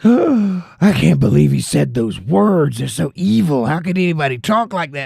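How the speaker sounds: mock pearl clutching. Mocking TV commentators outraged at Trump: hammed-up pearl clutching. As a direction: ham up a scandalised TV host clutching her pearls. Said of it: "pearl clutching".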